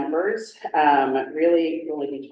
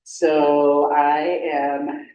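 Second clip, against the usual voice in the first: projecting to the back of the room; raised, carrying classroom voice; teacher voice; slower than usual. Real, not acted. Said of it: "I'm gonna use my teacher voice".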